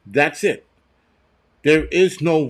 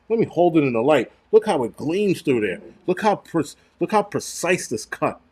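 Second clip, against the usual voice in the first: mock salesman pitch; 4 semitones higher than usual. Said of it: "scam artists of the world to be go".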